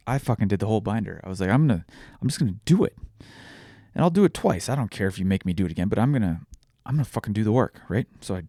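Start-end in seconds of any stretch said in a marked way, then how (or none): 1.5-7.8 retold stubborn resolve. Patient vows to rush through the therapy binder, stubbornly determined. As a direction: replay digging your heels in.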